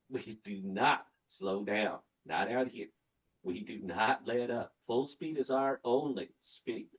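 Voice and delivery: slow, announcer-style show intro; lightly hammed-up host intro; podcast intro read.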